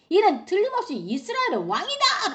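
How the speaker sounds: high-pitched acted call on spotting the target; excited cry of mistaken recognition; soldiers' battle cry. Acts soldiers spotting the king.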